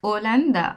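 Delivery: ওলান্দা with the h left silent; a clear teaching demo of ওলান্দা; Spanish pronunciation. Shown as a demonstration. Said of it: "আমি কি পড়তেছি?".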